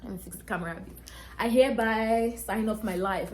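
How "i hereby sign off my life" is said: slow, louder mock-legal pronouncement; mock solemn oath. Joking to viewers, mock solemn slow oath. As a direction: intone it like a grim vow, joking. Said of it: "Okay, I'm joking".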